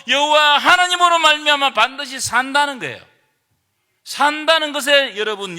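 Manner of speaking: loud, driving sermon delivery; full-force preaching. Acted. Pastor driving home God's answer to the congregation, loud preaching.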